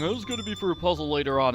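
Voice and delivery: quick self-mocking quote. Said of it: "It feels weird that I'm still saying".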